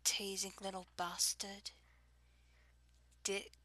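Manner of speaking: put-on English accent; fake British accent. Shown as a demonstration. Reading a word list for an accent challenge, fake British accent. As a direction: say it as if faking being British. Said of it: "fake British accent, fake English accent".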